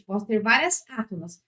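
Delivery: usual speaking voice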